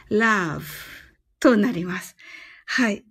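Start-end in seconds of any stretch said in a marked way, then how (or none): 0.1-0.6 love with the vowel drawn out longer. Shown as a demonstration. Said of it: "もうちょっと長くやってみますね". (loveを長めに伸ばして)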